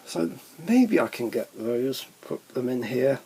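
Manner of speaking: talking around a hair in the mouth. Real, not acted. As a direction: speak with something caught on your tongue. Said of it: "Sorry, I had a hair in my mouth".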